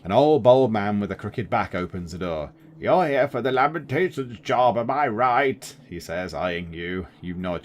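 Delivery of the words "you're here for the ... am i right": lightly voiced creaky old caretaker; a hint of an old man. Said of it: "Do you like the old man voice?".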